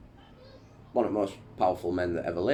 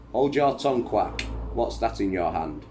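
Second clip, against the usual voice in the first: smiling; 4 semitones higher, 5 dB louder than usual. A narrator's reading. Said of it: "His Majesty says, smiling".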